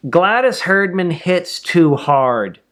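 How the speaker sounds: put-on slow, earnest kid voice; a small boy admitting his fear, drawn out; honest little kid. Kid confesses to Mother, in a slow earnest voice.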